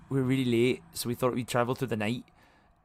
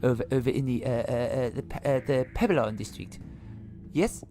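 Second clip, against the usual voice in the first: panicky stammer; 2 semitones higher than usual. Acted. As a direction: fumble for the answer in a nervous rush. Courier panics about destination.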